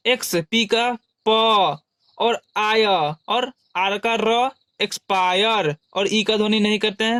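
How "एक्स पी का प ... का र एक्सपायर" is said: slow syllable-by-syllable breakdown of एक्सपायर; patient teacher spelling it out; slow sounding out. Shown as a demonstration. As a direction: break the word into sounds slowly. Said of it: "यानी एक्सपायर".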